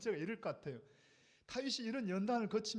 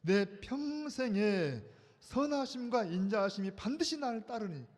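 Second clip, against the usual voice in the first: loud, slow group reading of the verse; read loudly; 4 dB louder, slower than usual. Shown as a demonstration. Pastor calling the congregation to read verse six loudly. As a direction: read it out big and slow together. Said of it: "크게 읽어봐요".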